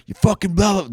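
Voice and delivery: mock screaming. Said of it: "just screaming constantly".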